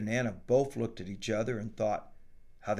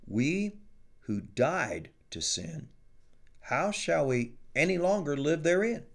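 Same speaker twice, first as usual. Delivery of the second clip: measured scripture reading voice. Acted. Greg reading Romans to Glade, measured preaching read. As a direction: read the verses like a preacher at the creek.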